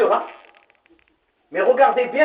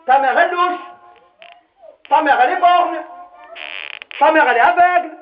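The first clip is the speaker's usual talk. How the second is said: mocking kids; 4 semitones higher than usual. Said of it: "Ils disent".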